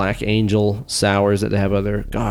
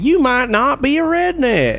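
catchphrase voice; 13 semitones higher than usual. Acted. Parody redneck catchphrase.

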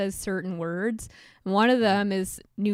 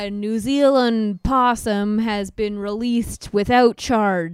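plain; 5 dB louder than usual. Shown as a demonstration. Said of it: "we have breaking news for you".

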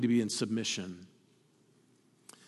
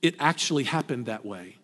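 calmly; 5 semitones lower than usual. Retold or imitated. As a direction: answer with calm, steady certainty. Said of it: "she very calmly looked at him and said".

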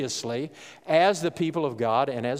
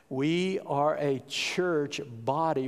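slow, with a heavy "We" at the start; stress on we; much slower than usual. Shown as a demonstration. Pastor stressing "We" to the congregation, slow and emphatic. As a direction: lean hard on "We", slowly. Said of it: "I've tried to emphasize the word "we".

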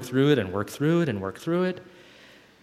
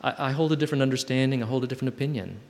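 calm, grounded statement; faster than usual. Shown as a demonstration. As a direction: say it calmly without drama. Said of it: "live in that space of".

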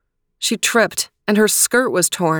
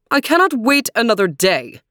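declaring; 4 semitones higher than usual. Acted. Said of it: "she declared".

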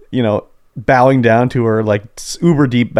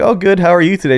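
high, friendly mock reply; a hint of a chirpy hostess; lightly voiced polite lady; sweet dominatrix reply; 6 semitones higher than usual. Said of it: "she'd be like".

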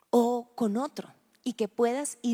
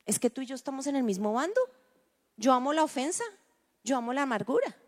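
Satan mocking; 3 semitones higher, faster than usual. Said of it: "Satanás se ríe y dice".

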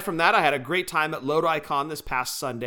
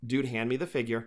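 calming quote; 5 semitones lower, 6 dB quieter than usual. Retold or imitated. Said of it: "you're like".

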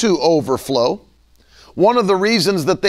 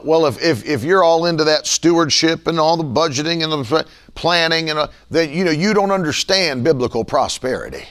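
mock Southern accent; 3 semitones lower than usual. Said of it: "I always go to the Southern accent".

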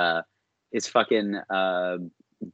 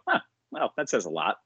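mock surprise; 3 dB quieter than usual. Reacting to the GM's statement with mock surprise then dry. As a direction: feign shock, then dry. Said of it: "And I go".

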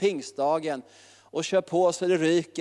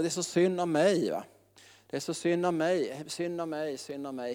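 mock self-pity, fading softer; mocking self-pitying people, a fading mock whine; 4 dB quieter than usual. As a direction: whine it and let it die away. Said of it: "Så vill man ha lite medömkan".

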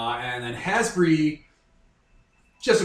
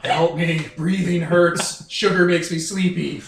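fat vampire voice; 2 semitones higher, 5 dB louder, slower than usual. Acted. Voicing the overfed fat vampire.

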